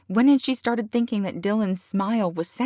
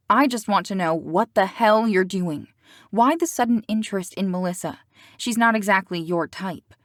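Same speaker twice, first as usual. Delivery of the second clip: heated, fast questioning; angry; 4 dB louder than usual. Acted. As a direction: demand answers, fired up. Celeste confronts Dylan.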